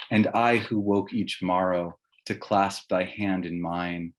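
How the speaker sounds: slow, solemn elegy reading; a slow, grieving recital of a verse elegy; poem reading. Acted. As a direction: read it like a mourning poem, slowly. Reads Halleck's elegy aloud.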